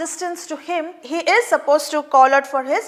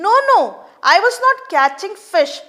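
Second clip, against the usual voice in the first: high, fast protest; nervous denial; 5 semitones higher, much faster than usual. Acted. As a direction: plead innocence. Fisherman denies in panic.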